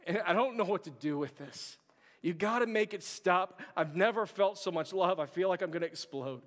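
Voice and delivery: overwhelmed plea. Retold or imitated. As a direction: plead like it's all too much to bear. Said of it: "he simply says".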